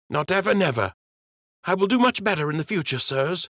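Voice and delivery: put-on a sorry child promising to do better; young prince apologizing. Prince apologizing to the captain, high young voice.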